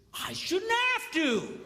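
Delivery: indignant reply. Retold or imitated. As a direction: put your foot down, offended.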